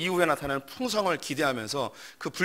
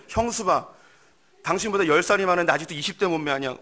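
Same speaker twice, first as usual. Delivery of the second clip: higher, louder jab; taunting husband; 4 semitones higher, 4 dB louder than usual. Acted. Husband comparing his wife to his sister-in-law, taunting. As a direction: rub his wife's nose in it.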